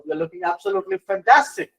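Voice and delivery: "fantastic" emphasized with an enthusiastic lift; stress on fantastic. Shown as a demonstration. Teacher demonstrating tone with a compliment, stress on "fantastic". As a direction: lean on the word "fantastic" as praise. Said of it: "I'm emphasizing on the word fantastic".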